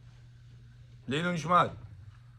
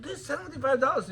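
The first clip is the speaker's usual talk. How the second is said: laughing disbelief; 10 semitones higher, 3 dB quieter than usual. Retold or imitated. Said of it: "I said".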